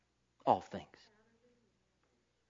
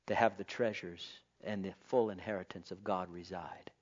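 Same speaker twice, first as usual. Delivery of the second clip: whispered, hushed reverence; 6 semitones lower, 8 dB quieter than usual. Real, not acted. Pastor confiding the promise to the pew, whispered. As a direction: lean in and breathe it. Intimate point in the sermon.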